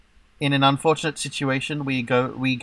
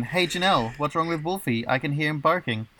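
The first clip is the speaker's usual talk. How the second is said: quoted line; 4 semitones higher than usual. Retold or imitated. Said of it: "the quote once again".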